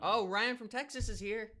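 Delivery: high and loud, stretched out; excited. Real, not acted. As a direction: call the name out gladly. Excited greeting of a viewer.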